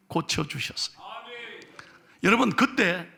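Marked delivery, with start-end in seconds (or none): none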